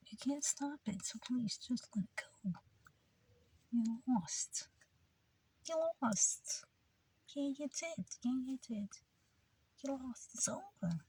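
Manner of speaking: high, hushed whisper in a mock Jewish accent. Preacher mocking those who lost, in a hushed Jewish accent. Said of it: "I can do a good Jewish accent".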